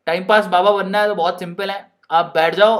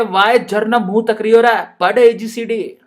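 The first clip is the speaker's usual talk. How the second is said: Rajasthani teacher. Pretend. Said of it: "madam कह रही है".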